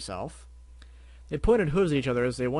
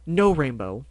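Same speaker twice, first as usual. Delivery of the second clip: louder firm command; yell; 8 dB louder, slower than usual. Acted. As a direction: stop her with a sharp yell. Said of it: "the Violet Unicorn yelled".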